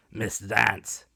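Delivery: lightly voiced bluff squire. A narrator's reading. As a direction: address him with bluff warmth.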